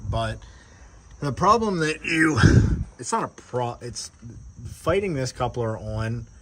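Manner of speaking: talking while lying on your back; strained voice from under the truck. Real, not acted. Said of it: "so I'm laying under the truck".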